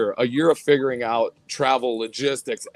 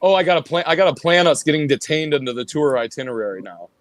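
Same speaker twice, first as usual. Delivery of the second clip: louder repeat; faster than usual. Real, not acted. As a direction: repeat it louder so the other person hears. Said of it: "say that again?".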